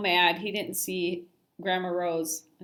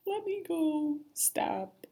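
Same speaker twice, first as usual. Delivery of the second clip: high, pleading fish; caught fish; 10 semitones higher, 3 dB quieter, slower than usual. A narrator's reading. Caught fish pleading with fishermen, high and desperate. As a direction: squeal to be let go.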